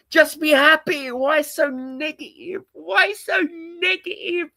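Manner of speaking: high, sing-song mock positivity; chirpy sarcastic cheer mocking fans; mock cheerful. Streamer mocking upbeat fans, high sing-song sarcasm.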